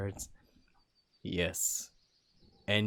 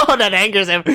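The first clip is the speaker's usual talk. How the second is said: loud, high laughing aside; 11 semitones higher, 20 dB louder, faster than usual. Real, not acted.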